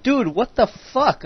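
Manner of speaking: high, slow, stretched disbelief; incredulous outburst. Retold or imitated. Retelling a classmate shaving in class, high stunned disbelief. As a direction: replay your own stunned reaction, loud and high.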